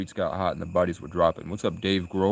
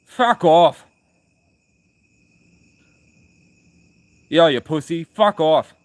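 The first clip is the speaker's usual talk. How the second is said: loud, higher-pitched mock defiance; defiant Irish retort; 6 semitones higher, 8 dB louder, slower than usual. Irish newcomers refusing to be slaves, defiant mock shouting. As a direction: shout it back as a cocky Irish rebel. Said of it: "They said".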